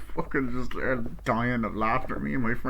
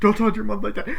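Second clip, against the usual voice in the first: mock parental telling-off, raised pitch; higher-pitched imitated reprimand; acted scolding; 9 semitones higher, 4 dB louder, faster than usual. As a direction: play a parent cutting in on a tantrum.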